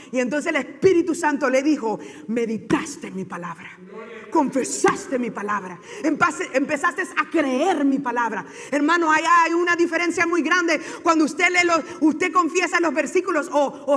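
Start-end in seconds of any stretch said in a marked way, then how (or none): 2.3-8.4 low, slow, solemn divine answer; measured voice from heaven, acted by a preacher; Holy Spirit speaking. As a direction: speak slowly and deliberately, pitched down.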